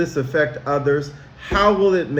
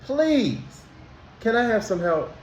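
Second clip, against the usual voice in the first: sweet polite ask; 6 semitones higher, 4 dB quieter than usual. Shown as a demonstration. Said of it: "do you say".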